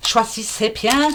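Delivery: slow, drawn-out Alsatian accent; card reader putting on an Alsatian accent for viewers. Shown as a demonstration. Slow mock Alsatian accent. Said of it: "Je parle en alsacien".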